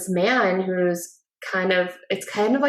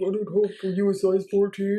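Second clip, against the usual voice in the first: put-on off-putting, strangely deep voice. Imitating the kidnapper from the movie: imitating an off-putting, strangely deep voice. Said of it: "he has the most off-putting voice ever".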